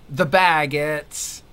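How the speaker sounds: slow, hammed-up French accent, stretched out; playful fake French accent, slow and drawn out; mock French accent. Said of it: "In a French accent".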